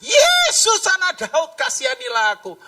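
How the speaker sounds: long high call on the name, then easing; crying out. Acted. Blind man calls Jesus over the crowd, acted shout. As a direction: stretch out the shouted name and plead. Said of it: "Dia teriak".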